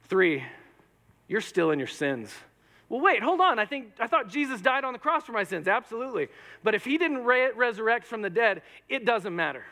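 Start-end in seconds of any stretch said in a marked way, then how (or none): 2.9-5.7 higher, startled wait; surprised objection. Pretend. Corinthian objecting to the preacher, surprised and higher. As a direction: catch yourself in alarm.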